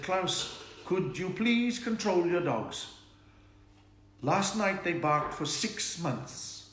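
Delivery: put-on drawn-out, lilting Norwegian accent. One Norwegian neighbour complaining to the other, Norwegian accent. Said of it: "That's how they talk".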